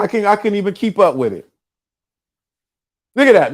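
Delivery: usual speaking voice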